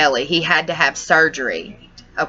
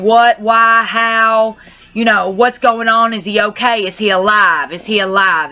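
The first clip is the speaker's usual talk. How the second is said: mildly raised, pleading string of questions; retold frantic questioning; 3 semitones higher, 3 dB louder than usual. Asking her mama about her hit dog, retold frantic pleading. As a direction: re-enact desperate questions without really screaming. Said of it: "squalling, screaming inside my house, asking".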